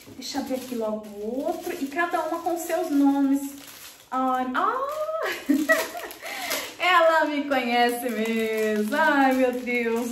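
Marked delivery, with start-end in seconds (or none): 4.1-10.1 slow, drawn-out gasp of joy; touched and amazed; overwhelmed delight. Real, not acted. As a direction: savour each word, moved. Overwhelmed by fitting gift.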